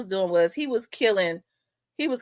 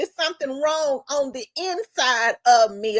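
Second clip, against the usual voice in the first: higher, tearful mock sobbing; imitated crying; 4 semitones higher than usual. Killer confessing to his girlfriend, imitated crying. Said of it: "That's why he was crying".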